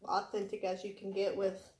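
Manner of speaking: talking while chewing; words round a bite of food; mouth full. Real, not acted. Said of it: "Sorry, you guys. I don't really like to talk with my mouth full".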